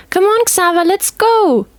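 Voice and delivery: put-on high, bouncy girl's voice; excited girl coaxing her friend to play; eager little girl. A narrator's reading. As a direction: pull your friend along with glee.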